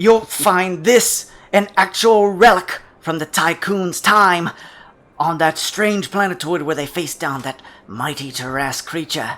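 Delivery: loud, high-pitched promo ad announcer voice.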